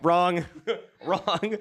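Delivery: a lightly voiced Trump, repeating wrong; mock Trump gloating; a hint of Trump declaring wrong; Trump impression. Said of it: "my terrible Trump impersonation".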